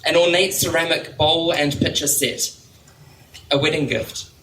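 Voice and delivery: unhurried recital with spaced phrases; poetry reading. Real, not acted. Poet reading about doing nails on hold, measured poetry-reading voice. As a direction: let each small step stand alone. Reads poem to audience.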